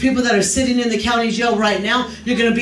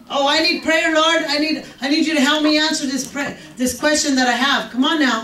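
higher mock-pleading prayer; pleading believer; 4 semitones higher than usual. A believer begging God for answers, hammed-up pleading. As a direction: beg the Lord like a needy petitioner.

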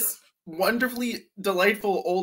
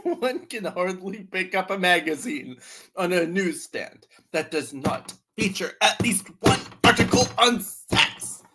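put-on old author's internal dialogue. Reading an old man's book to co-hosts, mock-solemn. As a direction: build the list of experts theatrically. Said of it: "My voice is his internal dialogue".

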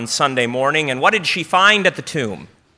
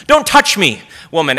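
a fussy recoil from being touched; prissy mock revulsion; mock squeamish; 6 dB louder than usual. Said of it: "As if Jesus was afraid of, you know, germs".

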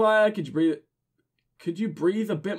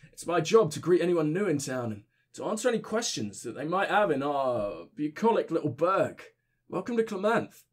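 put-on drunk voice; 3 dB quieter than usual. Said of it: "giving my drunk voice".

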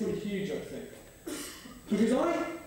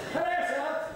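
a light mock-posh greeting, pitched up; posh hello; 7 semitones higher than usual. Preacher imitates posh village greeting, lightly mock-posh. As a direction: doff your cap politely, lightly. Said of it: "talking differently in this place".

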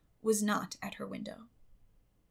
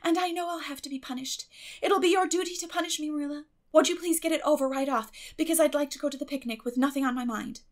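higher, fast and eager; eager plea; 6 semitones higher, 5 dB louder, faster than usual. A narrator's reading. Girl urges guardian to punish her quickly, eager. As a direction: rush it out hopefully.

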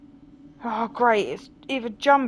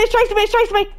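louder, higher panicked cry; scared horror game streamer; 7 semitones higher, 5 dB louder, much faster than usual. Real, not acted. Ghost chasing her.

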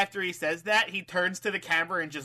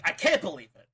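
emphatic mock disbelief; too flabbergasted. Fan misquoting stunned wrestler, emphatic disbelief. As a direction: overdo the disbelief a little. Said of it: "it wasn't even, like, that flabbergasted".

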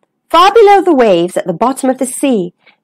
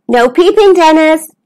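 higher-pitched, lightly called warning; calling out; 5 semitones higher than usual. Acted. Stanley warns his cousin before hiding, calling out. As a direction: call it up high to a little one. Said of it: "called Stanley".

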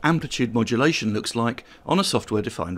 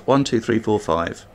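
raised test voice, only mildly louder; talking loud. Shown as a demonstration. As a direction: count up at fuller volume, without shouting. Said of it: "if I talk very loud".

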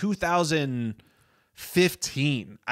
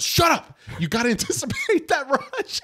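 angry yell; 14 semitones higher than usual. Retold or imitated. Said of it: "and Bradley Cooper goes".

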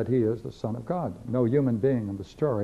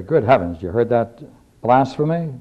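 mock outrage; 8 dB louder than usual. Voicing the outraged priests.

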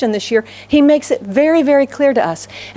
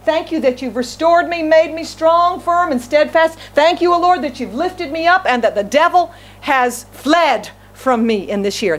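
raised, heartfelt prayer of thanks to the Lord; imagined thankful prayer; 4 semitones higher than usual. Pretend. Preacher voicing his year-end prayer, heartfelt and raised. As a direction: lift it up like a grateful testimony. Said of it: "and say".

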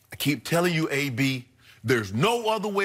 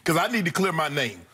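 calling out; 2 semitones higher than usual. Retold or imitated. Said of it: "I'm not".

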